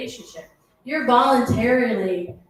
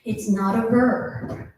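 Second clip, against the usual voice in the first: husband's line; 3 semitones lower, slower than usual. Retold or imitated. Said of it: "he's like".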